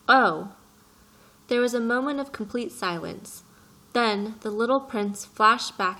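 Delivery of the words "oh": sudden loud shocked "Oh!"; shocked cry. A narrator's reading. Prince stung by the pilot's careless answer, shocked cry. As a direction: gasp it out, stung.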